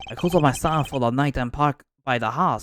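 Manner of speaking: put-on Asian accent that slips towards French; botched Asian accent, half French; attempted Asian accent. Noodle vendor recounts last night's rounds, muddled Asian-French accent. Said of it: "I don't know why I'm giving a French accent".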